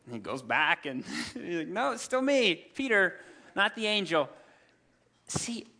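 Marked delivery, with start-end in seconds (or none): 1.7-4.3 raised, mildly exasperated insistence; exasperated correction. Retold or imitated. Peter at the gate, mildly exasperated correction. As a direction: set them straight.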